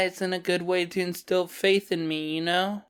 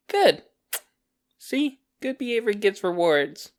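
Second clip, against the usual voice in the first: mock praise; 2 semitones higher than usual. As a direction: praise like training a pet. Praises captive for obeying.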